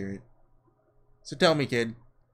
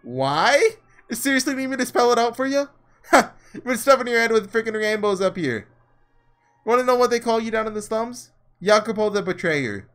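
louder, higher mocking sneer; gloating villain; 6 semitones higher, 4 dB louder than usual. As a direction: taunt the dying hero. Villain gloating over poisoned hero.

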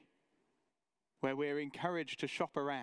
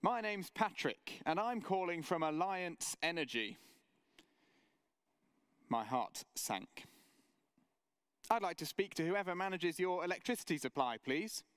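a hint of a higher, quick cold-caller voice; salesman caller; 4 semitones higher than usual. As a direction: lightly mimic the sales rep. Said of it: "said the voice at the other end".

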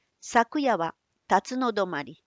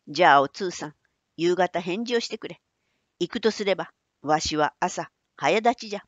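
put-on creaky wise old man; 3 semitones lower than usual. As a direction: speak as a gruff old merchant. Manbei instructs Otsu.

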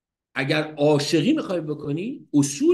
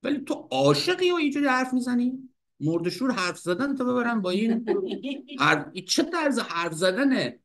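a hint of a higher, indignant wife; lightly voiced wife snapping back, higher; wife's retort; 5 semitones higher than usual. Retelling the wife answering Hafez, lightly higher indignant voice. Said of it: "زنش گفت".

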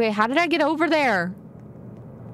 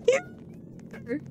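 high squeak through a laugh, then fading; laughing accusation; 7 dB quieter than usual. Real, not acted. Gamer laughing at players who misled her, fading squeak. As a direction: giggle the accusation out.

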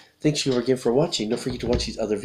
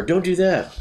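high mock telling-off; pitched-up parental command; imitated mom's yell; 8 semitones higher than usual. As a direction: imitate a mom's sharp order. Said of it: "Did she ever yell".

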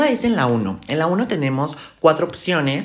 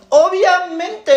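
high, loud, slowly stretched assurance; over-insistent; 11 semitones higher, 6 dB louder, much slower than usual. Acted. Dieter asked if lettuce fills her, over-insistent. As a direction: drag it out, far too convinced.

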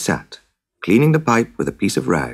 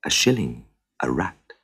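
lower, softer, calm demand; cool stranger stating a price; 4 semitones lower, 5 dB quieter than usual. Acted. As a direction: state the fee quietly and firmly. Stranger names his price.

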